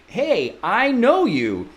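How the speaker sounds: high, drawn-out friendly greeting; friendly recognition. Acted. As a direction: greet them like someone you know. Imagined client feels recognition.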